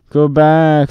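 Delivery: high, loud parrot call; parrot squawk. A narrator's reading. Parrot warning the pirates, high squawk. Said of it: "squawked Polly".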